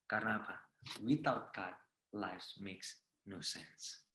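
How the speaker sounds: soft, low preaching voice; solemn testimony close. Real, not acted. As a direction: bring the testimony down to a quiet close.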